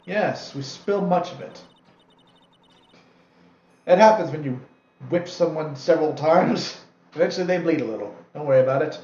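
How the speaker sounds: gleeful sadistic laugh. Acted. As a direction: savour it with a cackling grin. Gleeful talk of whipping.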